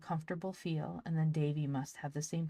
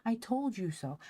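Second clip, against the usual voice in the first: triumphant teasing; 6 semitones higher than usual. Acted. Polly triumphant, spinning Ben.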